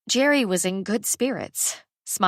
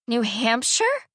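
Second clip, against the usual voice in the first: dismayed question; 4 semitones higher, slower than usual. Acted. Daughter dismayed by moving news.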